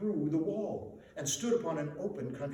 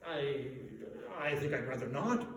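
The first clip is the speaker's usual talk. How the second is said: timid; 4 semitones lower, 3 dB quieter than usual. Acted. Scrooge shrinks from the warning.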